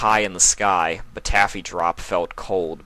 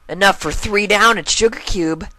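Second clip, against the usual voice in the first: higher colt voice, firm fall; colt confirming; 13 semitones higher, 5 dB louder than usual. Acted. Colt confirming the bet to his sister, higher and firm. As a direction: settle it flatly.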